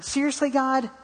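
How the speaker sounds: high, incredulous "Seriously, God?"; exasperated at God. Retold or imitated. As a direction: ask "Seriously, God?" pitched high in disbelief. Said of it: "sitting in the car thinking".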